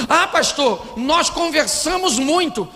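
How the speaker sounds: imitando a objeção, voz mais aguda; casal se justificando. Retold or imitated. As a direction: levemente encenado, defensivo e agudo. Imita casais respondendo ao pastor. (casal se justificando, em tom mais agudo)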